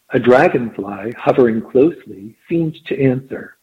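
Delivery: measured storytelling read; story narration. A narrator's reading. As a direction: read it like an audiobook. Reads the story aloud.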